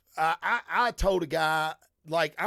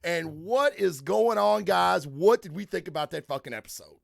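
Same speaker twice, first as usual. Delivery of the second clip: show host intro; 3 semitones higher than usual. Acted. Host welcomes listeners to the season's last episode, hyped-up intro. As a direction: kick off the show with punched-up key words.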